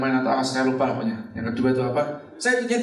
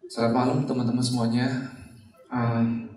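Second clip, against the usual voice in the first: low, stiff and halting, a nervous beginner on stage; stiff nervous opening; 5 semitones lower than usual. Retold or imitated. Speaker imitating his first nervous home meeting greeting. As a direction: stand there stiffly and greet the room awkwardly. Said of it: "Di depan panggung gini ya".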